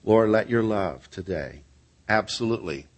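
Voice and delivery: measured closing prayer with long pauses; phrase by phrase, sinking in pitch; earnest prayer. Real, not acted. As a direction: pray aloud for the congregation, unhurried.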